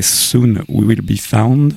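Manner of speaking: a song title said in a French-accented English. Real, not acted. Host reading an English song title to listeners, apologetic French-accented English. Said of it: "Excusez mon accent anglais".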